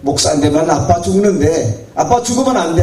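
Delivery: a child begging through tears, lightly voiced; crying child. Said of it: "하면서 우는 거예요". (울먹이며 아빠에게 애원하는 아이 목소리)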